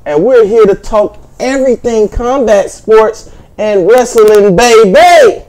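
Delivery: hyped-up party host; rowdy party animal. Acted. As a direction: whip up the crowd, loud and rowdy. Hype show opener.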